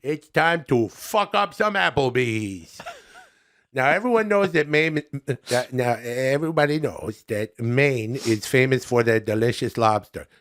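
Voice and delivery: lightly voiced chummy comic reviewer; folksy buddy-to-buddy review, a little put on; Adam Sandler.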